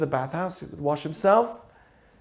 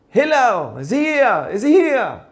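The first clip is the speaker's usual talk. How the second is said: higher-pitched mock holler; imitated screaming; 5 semitones higher, 3 dB louder, slower than usual. Rude caller shouting at the rabbi's house, mock screaming. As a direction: call out insistently, each phrase falling away. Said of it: "he screams at the top of his lungs".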